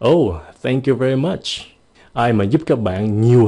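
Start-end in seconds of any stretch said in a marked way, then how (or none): 0.1-1.4 surprised thank you very much. Shown as a demonstration. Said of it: "to lớn hơn nữa".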